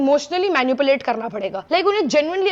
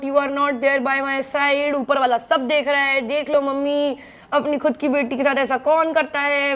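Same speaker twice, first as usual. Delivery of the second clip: guilt-tripping plea. Retold or imitated. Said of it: "emotionally इतना manipulate करा".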